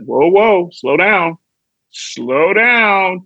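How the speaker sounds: urging himself to ease off, rising on the repeat; acted inner voice putting on the brakes; self-cautioning. Brain telling himself to ease up.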